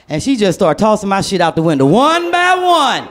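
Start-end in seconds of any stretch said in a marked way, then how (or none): 1.8-3.0 very slow, drawn high; slow emphasis. Acted. Describing her things thrown out the window, slow and high. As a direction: stretch each word out.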